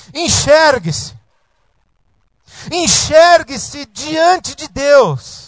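each word drawn out slowly; weighty, deliberate exhortation; slow emphasis. Acted. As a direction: lean on every word of Enxergue-se diante de Deus. Preacher stressing key command.

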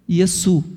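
"Yesu" as two syllables, stress on SU; Aramaic pronunciation. Shown as a demonstration. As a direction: say "Yesu" with s in place of sh. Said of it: "você fala Yesu". (pronúncia aramaica, "Yesu" terminando em su)

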